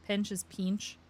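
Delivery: "pinch" said once plainly, once as local "peench"; local vowel. Shown as a demonstration. Streamer showing chat local vowels, accent demo. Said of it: "Our vowel sounds are weird".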